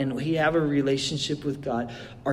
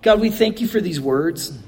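earnest prayer, rising in intensity. Acted. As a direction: pray it with growing conviction. Pastor leads closing prayer.

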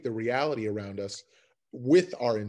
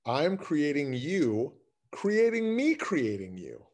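slow sing-song intention; slower than usual. Acted. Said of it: "listen for how we deliver it".

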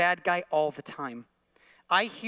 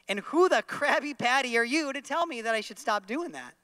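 defensive shopper; 5 semitones higher than usual. Pretend. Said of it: "That guy is gonna look at me and go".

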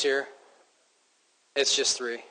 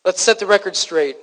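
raised, insistent voice with mild angst. Acted. Preacher as Paul having to defend himself, mildly angst-edged. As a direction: press the point with a touch of angst. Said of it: "there's a bit of angst in his voice".

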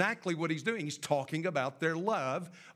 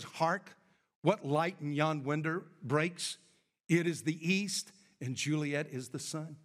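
hammy stage actor; 3 semitones lower than usual. Retold or imitated. Preacher acting Romeo's soliloquy.

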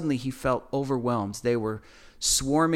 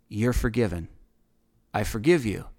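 lower-pitched, gentle reassurance; comforting; 4 semitones lower than usual. Retold or imitated. Figure comforting the terrified man in the corner, reassuring. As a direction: absolve him calmly and simply. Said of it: "and comforted him".

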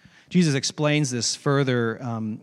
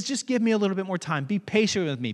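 quick, mild mock plea; acted begging; 4 semitones higher than usual. Servant begging his fellow for time, mild pleading. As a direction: beg lightly, a touch higher. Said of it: "This servant also begs".

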